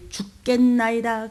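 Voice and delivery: slow hushed whisper of 죽겠나이다. Shown as a demonstration. Preacher hushing the phrase for the congregation, whispered. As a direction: breathe 죽겠나이다 out without voice. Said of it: "입 조심해요".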